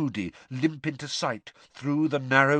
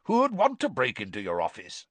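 growling insistence with raised pitch; growled; 5 semitones higher, faster than usual. A narrator's reading. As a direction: press the point with a growl. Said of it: "growled Moody".

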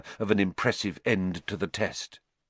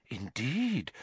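whispered; 3 semitones higher, 7 dB quieter than usual. A narrator's reading. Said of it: "whispered Professor Trelawney".

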